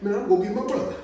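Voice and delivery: put-on high, cocky little-kid boast; mock a kid who thinks he's tough; acting tough. Little kid bragging about big cousin, mock tough. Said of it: "you think you so tough".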